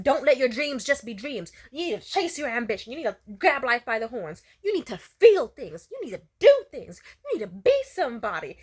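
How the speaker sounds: mock Shia LaBeouf-style pep rant; motivational rant. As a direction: rant like a hype motivational speaker. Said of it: "Shia LaBeouf-esque rant".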